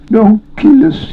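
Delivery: very high, slow, weeping plea; shrieky tearful creature voice; whimpering Gollum. A narrator's reading. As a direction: whimper and beg for your life. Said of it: "fell flat upon the ground and whimpered".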